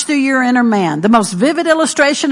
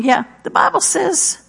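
spoken confession. Shown as a demonstration. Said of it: "you just go right along".

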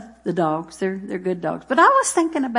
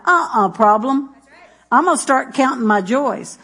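determined; 3 semitones higher than usual. Retold or imitated. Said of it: "No, you're going".

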